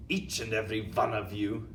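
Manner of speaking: commanding witch with a put-on accent. Grand High Witch speaks.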